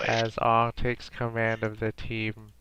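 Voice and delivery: slow, even robot announcer; robotic voice. Pretend. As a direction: read it like a computer. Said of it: "in a robotic voice".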